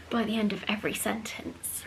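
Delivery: breathless, trailing off; running out of air; out of breath. Real, not acted. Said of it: "I get breathless during this video".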